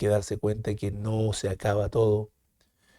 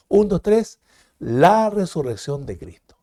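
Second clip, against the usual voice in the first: louder, calling the count for the class to repeat; a bit louder; 5 semitones higher, 4 dB louder than usual. Shown as a demonstration. Teacher urging the class to say it louder, raised voice. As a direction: lift the volume as a class cue. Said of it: "Un poquito más fuerte".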